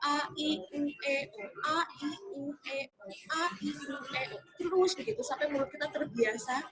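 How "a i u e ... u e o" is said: vowels "a, i, u, e, o" sounded one by one; measured vowel-by-vowel chant for diction practice; articulation drill. Shown as a demonstration. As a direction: enunciate each vowel separately, like a mouth exercise. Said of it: "latihan sena muka dan juga artikulasi".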